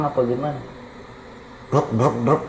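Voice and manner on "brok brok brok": soldiers' boots thudding in rhythm; imitated marching footsteps. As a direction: mouth the tramp of many marching feet. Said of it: "ini kayak serdadu banyak orang". (menirukan derap langkah serdadu)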